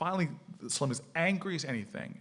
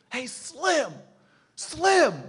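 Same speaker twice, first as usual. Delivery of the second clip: high, loud imitated holler; retold shout down the street; calling out; 14 semitones higher, 8 dB louder, much slower than usual. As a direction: call after someone walking away, pitched way up. Retold calling after a man.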